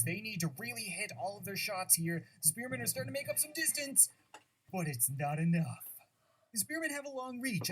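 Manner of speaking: lightly voiced tournament announcer. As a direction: commentate the match with hype. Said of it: "that stupid announcer voice".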